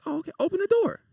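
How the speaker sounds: father greeting son, lightly calm; a hint of calm dad. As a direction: play the unbothered father lightly. Calm dad voiced in story.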